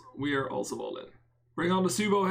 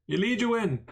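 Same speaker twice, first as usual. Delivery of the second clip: "You lead, you win" pitched higher in a put-on character voice; 6 semitones higher than usual. Streamer repeating his poker motto in a playful higher voice.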